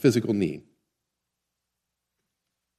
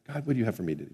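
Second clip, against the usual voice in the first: simple prayer; 3 semitones lower, 12 dB quieter, much faster than usual. Shown as a demonstration. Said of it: "That simple".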